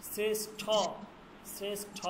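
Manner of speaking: "শ্রেষ্ঠ" ending on a retroflex, aspirated ṭh. Shown as a demonstration. Teacher giving example words for ṭe plus he, "শ্রেষ্ঠ" with aspirated ṭh. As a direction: release the ঠ in "শ্রেষ্ঠ" with a puff of air. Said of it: "উচ্চারণ হচ্ছে এই যে ঠ".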